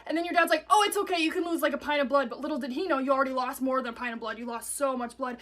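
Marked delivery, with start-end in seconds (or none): 0.7-2.3 lightly voiced cheerful dad; dad reassuring. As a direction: brush it off like a dad who isn't worried.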